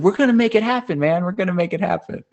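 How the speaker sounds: high, loud hippie promise; imitating Duncan's relaxed promise; stoner voice. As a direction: mellow but eager hippie.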